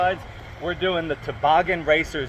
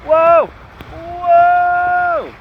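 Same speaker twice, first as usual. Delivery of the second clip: water slide ride; 9 semitones higher, 6 dB louder than usual. Real, not acted. Riding slide toward the end.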